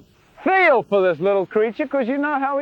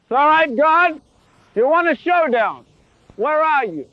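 louder, higher cocky challenge to God; mock showdown challenge; 6 semitones higher, 4 dB louder than usual. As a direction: call God out like a swaggering brawler. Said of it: "trying to take God on".

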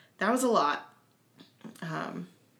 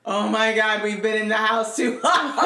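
exasperated; 5 dB louder than usual. Retold or imitated. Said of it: "I was like".

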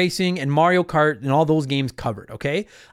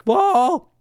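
surprised whoa; 11 semitones higher than usual. Real, not acted. Reacting to own voice crack.

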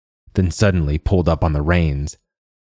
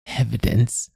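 put-on high old woman's echoing question; old crone; 6 semitones higher, 3 dB quieter than usual. A narrator's reading. Old woman throwing the man's word back, high crone voice.

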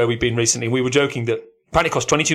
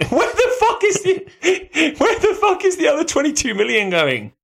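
higher, slow, laughing outrage of the wife; laughing wife impression. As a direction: play the wife stunned, laughing. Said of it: "She's like".

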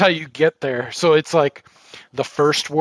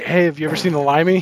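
louder, fast, eager retold question; 4 semitones higher, 5 dB louder, much faster than usual. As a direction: rush it out, keen to share. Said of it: "Yeah, I was like".

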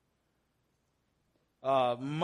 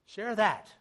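higher and louder, pressing the point; emphatic urging; 6 semitones higher, 6 dB louder than usual. Real, not acted. Pastor urging the church to share good things, emphatic. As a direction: push it on the listeners.

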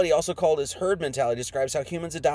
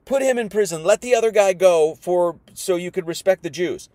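mock mob shout; 3 semitones higher, 5 dB louder than usual. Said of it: "They're like".

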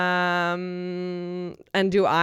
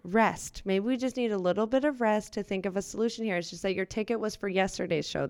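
forced calm; 5 dB quieter than usual. Acted. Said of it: "do calm".

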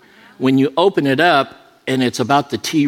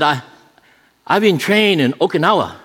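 mock East Asian accent; 4 semitones higher than usual. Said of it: "I'm not making fun of Orientals".

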